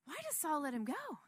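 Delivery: hushed, whispered wondering; whispered question. Real, not acted. Preacher wonders to himself in a whisper. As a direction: wonder it under your breath. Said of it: "I'm asking myself".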